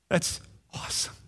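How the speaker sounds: breathless whisper of wonder; whispered real awe; awed whisper. Real, not acted. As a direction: hush it out in amazement. Marvelling at holding baby Jesus.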